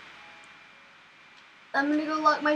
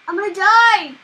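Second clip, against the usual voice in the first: panicked cry; 4 semitones higher, 11 dB louder than usual. Real, not acted. Fleeing the witch.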